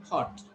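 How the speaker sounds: "hot" with a quick o; short o in "hot", set against a long one; short vowel. Shown as a demonstration. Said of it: "find the difference here".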